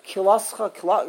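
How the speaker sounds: KILASCHA squashed into too few syllables; swallowed syllables, mocked. Teacher mocking readers nobody can understand, swallowed word. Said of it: "I don't even know what they say".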